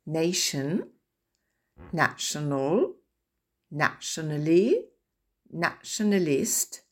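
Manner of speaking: nation, national, nationally rising, nationalist falling; repeated stress model; word-stress drill. Shown as a demonstration. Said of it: "Je les répète encore".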